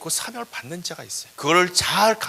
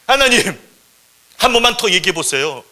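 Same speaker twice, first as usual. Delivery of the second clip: loud, raised-pitch appeal; urgent pleading; 4 semitones higher, 10 dB louder than usual. Acted. Thornbush pleading with angry God for Moses, loud and urgent. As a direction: beg for one more chance.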